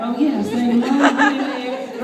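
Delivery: slow, drawn-out mocking of everybody; mock crowd voice. Speaker mocking everyone's advice with a slow laugh. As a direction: lightly imitate the know-it-all crowd, laughing.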